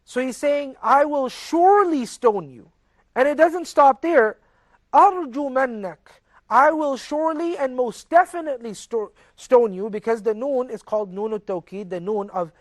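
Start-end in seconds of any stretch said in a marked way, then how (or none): 0.8-2.7 slow, louder and higher, each word leaned on; angry father's threat. Retold or imitated. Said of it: "He's seriously angry". 4.9-9.9 angry father's threat. Retold or imitated. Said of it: "He's seriously angry".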